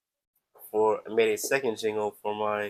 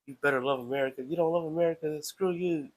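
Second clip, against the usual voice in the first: mildly hammed-up indignant demand, higher toward the end; mock serious patriot; 5 semitones higher than usual. Streamer mimicking overly serious patriots, mock stern. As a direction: act a touch of pushy patriotism. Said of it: "I'm not all serious".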